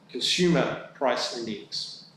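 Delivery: slow, with "consumer" leaned on hard; stress on consumer. Shown as a demonstration. Treasurer reminding council, slow stress on "consumer". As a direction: land firmly on "consumer", then let "price index" follow. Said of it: "I'll emphasize the word consumer".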